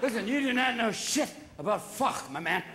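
lightly voiced drunk picking a fight; hammed-up bar drunk demanding attention; mock belligerent drunk. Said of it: "Alcohol changes your mood sometimes".

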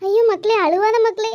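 a loud rush of alarm and comfort; loud dismayed plea. Acted. Friend rushes to calm the crying wife, loud and alarmed. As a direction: cry out ஐயோ loudly, begging her to stop.

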